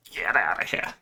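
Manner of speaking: whispered, breathy dismissal; mock whisper. Vlogger banishes fancy burgers in a whisper. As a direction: hiss it away under the breath.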